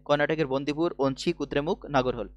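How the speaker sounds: memory-list recital in a single sweep; in one go. Shown as a demonstration. Teacher showing students how to memorise four parks, in one go. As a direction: run the four names together as one chain. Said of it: "চারটে এক টানে মনে রাখো".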